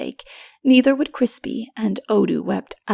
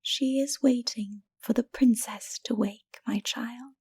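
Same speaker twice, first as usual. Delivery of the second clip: put-on softer, whispered comfort to a child; gentle whisper; 8 dB quieter than usual. A narrator's reading. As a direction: soothe him in a whisper. Mara gently answers the boy.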